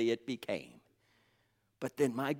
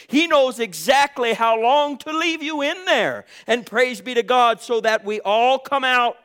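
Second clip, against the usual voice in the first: raised, ringing preacher's delivery; fervent preaching; 8 semitones higher, 8 dB louder than usual. Real, not acted. Preacher telling the congregation God knows the fire's heat, fervent preaching. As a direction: preach it high and forceful to the congregation.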